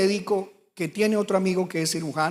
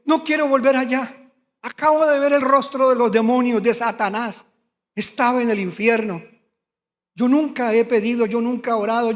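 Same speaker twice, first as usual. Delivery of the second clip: desperate pleading; 3 semitones higher, 4 dB louder than usual. Retold or imitated. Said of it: "Lloraba y decía".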